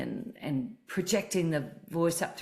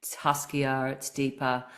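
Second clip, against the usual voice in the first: throaty speaking voice. Shown as a demonstration. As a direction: let the voice sink down into your throat. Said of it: "my voice is landing in my throat now".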